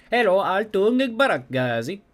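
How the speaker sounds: high, loud, drawn-out hello; a hammed-up greeting, high and slow. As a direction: sing out the name like a showman. Greeting the cafe owner.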